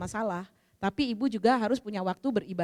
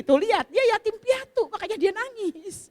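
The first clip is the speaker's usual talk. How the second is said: high, loud protest, stretched at the end; mock pitying protest; 11 semitones higher, 5 dB louder than usual. Umi explains the helper's tears to a Malaysian pilgrim, mock pitying protest. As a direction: plead the orphan's case, hammed up and high.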